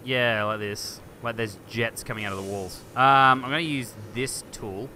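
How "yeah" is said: ordinary delivery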